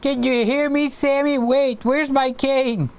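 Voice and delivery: hammed-up confused old man hunting for his cane; mock old man. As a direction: play yourself at seventy, lost and calling out. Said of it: "I'll be".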